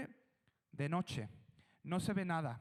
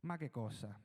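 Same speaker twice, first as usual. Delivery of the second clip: Italian exclamation; 7 semitones lower, 4 dB quieter than usual. Acted. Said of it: "dicen los italianos".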